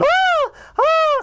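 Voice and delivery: repeated piercing high screams; cartoon scream. SpongeBob will not stop screaming, cartoon scream. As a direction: keep screaming in hammed-up terror. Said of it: "It's still going on".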